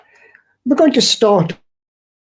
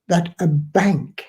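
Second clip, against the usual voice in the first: "bank" slow and weighted; "bank" set apart with a falling tone; stress on BANK; slower than usual. Shown as a demonstration. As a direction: lean slowly on the word "bank". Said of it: "I stress the word bank".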